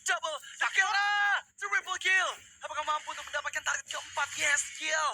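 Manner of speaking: hyped play-by-play shout; fighting game announcer. Real, not acted. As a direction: yell the kills like an announcer. Caster hypes a multi-kill teamfight.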